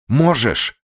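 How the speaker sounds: shrill loud insisting cry; fierce shout. Acted. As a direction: hurl it at him.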